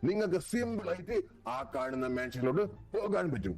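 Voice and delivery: high, slow showy announcer. Acted. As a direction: announce the contest grandly. Announcer voice for island.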